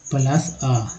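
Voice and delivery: slow blended sounds plus आ; spelling out sounds. Shown as a demonstration. Teacher blends sounds for students. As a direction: sound out plus आ slowly, teacher style. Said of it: "प के साथ क्या लगा हुआ".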